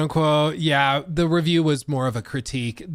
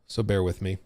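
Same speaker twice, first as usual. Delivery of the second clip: wheezy gasp; 6 semitones lower, 6 dB quieter than usual. Real, not acted. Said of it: "I am a little wheezy".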